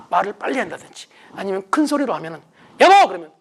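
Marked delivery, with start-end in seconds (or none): 2.8-3.1 high, loud call to a spouse; loud impatient call; harsh shout. Retold or imitated. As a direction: yell for your husband impatiently.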